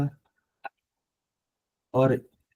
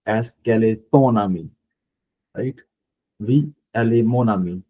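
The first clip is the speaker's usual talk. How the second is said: slow model sentences; much slower than usual. Shown as a demonstration. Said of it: "So we just did this here".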